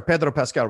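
"Pedro" said with a rolled Spanish R; rolled R's. Real, not acted. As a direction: roll the R in "Pedro Pascal". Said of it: "I love how you're rolling those R's".

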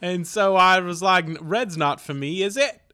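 British fan lilt, jumping up on the tag question; British soccer fan. Shown as a demonstration. Guest explains loving blue team, mock British accent. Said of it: "be a British, uh, soccer fan".

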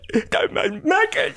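high, hammed-up blubbering; mock crying. Game master imitating a character in tears, mock crying. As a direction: fake a high wailing cry. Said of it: "Hero's probably crying 'cause he's like".

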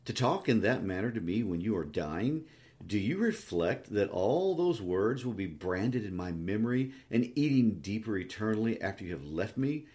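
understated savage reproach; mildly fierce, anguished reproach. Acted. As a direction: accuse her with controlled anger. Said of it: "he pursued savagely".

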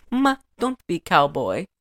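lightly voiced Italian mother; Italian mom accent. Mom hearing he's going to Tennessee, mock Italian accent. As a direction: repeat the plea with an Italian lilt. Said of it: "she sounded exactly like the lady".

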